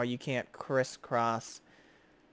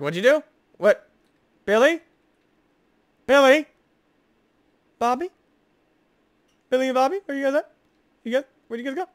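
mob calling friends; 11 semitones higher, 10 dB louder, faster than usual. Retold or imitated. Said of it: "He's like".

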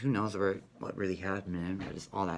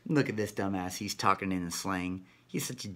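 gloating demon; 2 semitones higher, 4 dB louder than usual. Acted. Demon joking with another demon about a dumb human, mocking laughter. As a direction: sneer and cackle like a joking demon. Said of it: "another negative demon saying".

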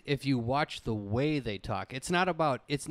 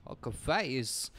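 Walken voice; 4 dB quieter, slower than usual. Retold or imitated. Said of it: "video of Christopher Walken's".

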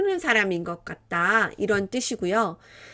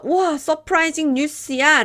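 mock surprise; 5 semitones higher, 3 dB louder than usual. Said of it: "라고 하면".

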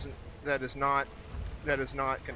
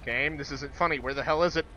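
panicked; 5 dB louder than usual. Real, not acted. Panicking at an unseen monster.

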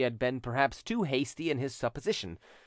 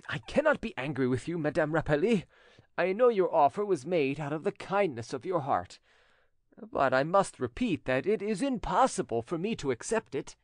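lightly voiced, earnest notary, pitched up; dignified notary; 5 semitones higher than usual. Notary declines the widow's kind offer, earnest courtesy. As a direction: refuse politely but firmly. Notary politely refuses loan.

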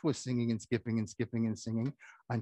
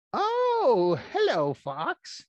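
chick greeting; 11 semitones higher, 5 dB louder, much slower than usual. Acted.

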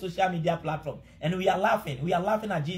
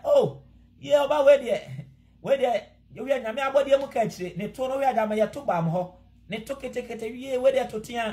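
mocking someone's looks; 3 semitones higher than usual. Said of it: "we normally say that in laugh".

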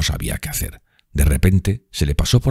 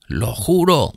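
hoarse echo; 9 semitones higher, much slower than usual. A narrator's reading. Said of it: "como un eco ronco".

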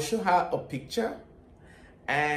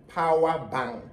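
Nigerian accent. Shown as a demonstration. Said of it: "with Nigerian accent".

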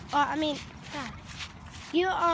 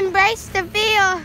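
mock dramatic; 4 semitones higher, 7 dB louder, slower than usual. Mock motto to friend.

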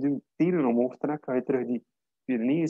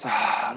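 open-mouthed sigh out; 4 semitones lower than usual. Shown as a demonstration. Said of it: "En met een open mond".

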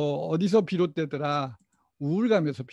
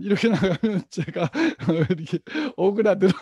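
laughing; 2 semitones higher, 6 dB louder, faster than usual. Real, not acted. Admitting his wife's method works.

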